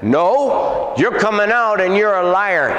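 high, forceful retold rebuke; rebuking the demon. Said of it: "and I said".

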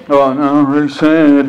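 mock wail of sadness; hammed-up sadness. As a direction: overplay the sorrow. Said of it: "we don't say".

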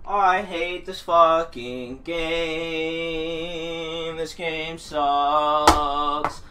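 slow, low, bitter grumble; sulky grumble. Real, not acted. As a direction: drag it out in bitter disgust. Sulking after loss.

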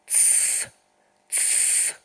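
whispered "тс" to quiet the dolls; whispered shushing "тс, тс"; hushing. Shown as a demonstration. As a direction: shush them softly, just breath. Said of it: "що їм казала Тетянка?".

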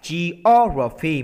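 "geography" slowed, second syllable O drawn out; teacher's slow "geography" stressing the O. Shown as a demonstration. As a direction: hit the O in "geography". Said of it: "mình sẽ nhấn âm hai".

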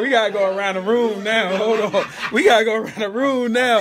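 loud, laughing announcement. Real, not acted. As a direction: call it out through laughter. Laughing host announcing round.

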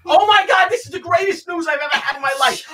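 can't contain the delight; overjoyed. Real, not acted. Reacting to great news.

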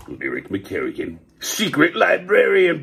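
dramatic show title announcement; announcer voice. Acted. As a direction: announce the hero's name grandly.

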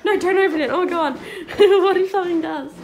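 laughing. Real, not acted. Scared of door, laughing.

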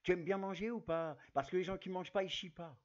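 blunt Depardieu joke, hammed up; loud imitation of Depardieu; Gérard Depardieu impression. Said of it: "je vais faire la voix de Gérard Depardieu".

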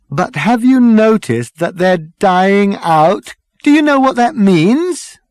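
high, loud, building exasperation; urgent appeal. Acted. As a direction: try to make them grasp it. Ford appeals about dying cavemen.

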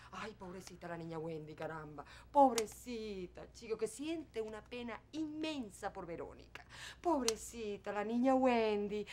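soft, slow, mocking sympathy; sarcastic mock pity. Mother mocks her daughter's embarrassment with slow sarcastic pity. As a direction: drip fake pity over poor little Wendy.

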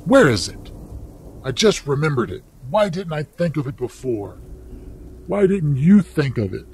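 high, urgent and eager; frantic. Acted. Wife frantically presses husband about the paw. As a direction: rush the questions in a frenzy.

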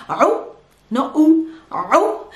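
slow demo of U with a throat ayn against plain U; Arabic ayn contrast. Shown as a demonstration. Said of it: "Try to pronounce your A well".

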